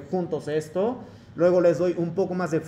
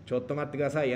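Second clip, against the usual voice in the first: softer, faltering start, then the phrase; acted hesitation; 3 semitones lower, 5 dB quieter than usual. Teacher acting out a student stalling for time, soft and faltering. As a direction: caught mid-thought, asking for a moment.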